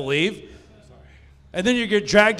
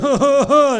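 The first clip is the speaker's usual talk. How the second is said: loud, higher mock sobs; mock crying; 7 semitones higher, 7 dB louder than usual. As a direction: imitate a kid bawling. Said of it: "him just crying".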